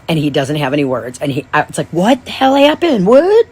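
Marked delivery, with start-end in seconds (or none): 1.9-3.5 higher, slow bewildered cry rising to a loud squeak; baffled outburst. Retold or imitated. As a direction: throw up your hands in confusion. Mom reenacting her confusion.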